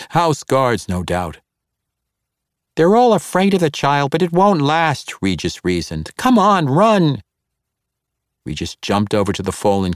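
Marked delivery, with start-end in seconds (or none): 2.8-5.1 high, hurried halfling voice; urgent halfling. Acted. Regis urges escape. 6.2-7.2 high, slow, pressing urge to run; urgent command. Acted. Regis urges escape.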